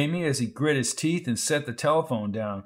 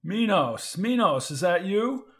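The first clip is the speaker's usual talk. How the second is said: higher, urgent calling of the name; a touch of panic, pitched up; frantic; 5 semitones higher, slower than usual. Acted. Doctor on the phone, frantically calling Minos, higher. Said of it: "he asked frantically".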